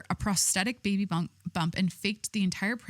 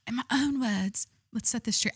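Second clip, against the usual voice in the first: attempted Scottish accent; 3 semitones higher than usual. Shown as a demonstration. Streamer reading the woman's statement in a shaky-knowledge Scottish accent. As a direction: fumble through a fake Scottish accent. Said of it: "I could do a Scottish accent if I tried".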